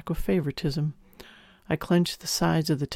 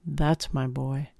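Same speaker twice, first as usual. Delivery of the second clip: smiling voice; slower than usual. Acted. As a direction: say it with a smile, unhurried. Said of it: "I could hear the smile in her voice".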